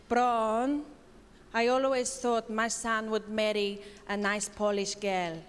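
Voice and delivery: put-on lightly done Polish accent. Comedian voicing mother-in-law's backhanded compliment, mild Polish accent. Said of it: "and I'm gonna do the accent".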